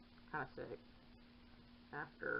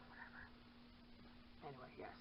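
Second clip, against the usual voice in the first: resigned sigh; 4 semitones lower, 16 dB quieter, faster than usual. Real, not acted. Giving up on cat.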